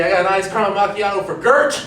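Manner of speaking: lightly voiced barista calling an order.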